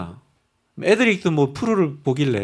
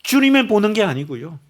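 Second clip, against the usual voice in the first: usual speaking voice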